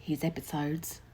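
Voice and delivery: slow, clipped, nasal matron; a prim, nasal matron. Acted. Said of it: "in a clipped nasal voice".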